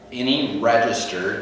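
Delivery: "registered" slowed and weighted; stress on registered. Shown as a demonstration. Realtor telling buyers about the registry, stressing "registered". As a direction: lean hard on the word "registered". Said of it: "I always stress the word registered".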